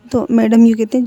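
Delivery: plain reading voice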